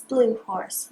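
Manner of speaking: dropped, settling repeat. Shown as a demonstration. Repeat lower.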